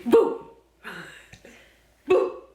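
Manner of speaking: loud, high boo; jump-scare the dog; playful boo. Real, not acted. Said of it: "I'm gonna scare you".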